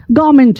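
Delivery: "गवर्नमेंट" as GAA-ment, R dropped; silent R. Shown as a demonstration. English teacher repeats after spelling it out, silent R. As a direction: say "गवर्नमेंट" in two syllables, no R. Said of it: "आर silent हो गया".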